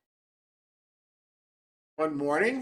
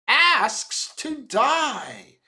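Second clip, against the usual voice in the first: grim warning; 5 semitones higher, 5 dB louder, much slower than usual. A narrator's reading. Old man's grim warning.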